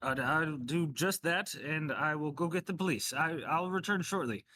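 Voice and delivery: put-on measured reply with a touch of an old man; lightly voiced elderly doctor. Theophilus agrees to fetch the police, lightly voiced old doctor.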